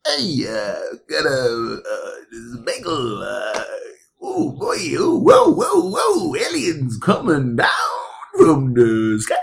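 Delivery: put-on mixed New York and foreign accent; wobbly, rising alien-panic impression; Forrest Whitaker impression. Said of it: "our impression of what Forrest Whitaker's voice sounds like".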